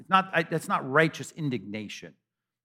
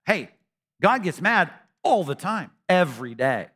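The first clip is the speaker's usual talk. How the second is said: emphatic preaching; 5 semitones higher, 4 dB louder than usual. Acted. Preacher drives home to the congregation, louder. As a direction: raise the voice and hit mad all the time.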